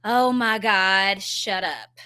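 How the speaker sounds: retold exasperation, slow and held back; drawn-out fed-up mom, re-enacted; frustrated, not screamed. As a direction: let out frustration without screaming. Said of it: "I didn't scream it".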